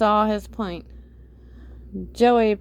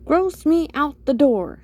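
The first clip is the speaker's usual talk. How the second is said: louder, higher disgusted outburst; grossed-out, raised voice; disgusted protest; 5 semitones higher, 5 dB louder than usual. A narrator's reading.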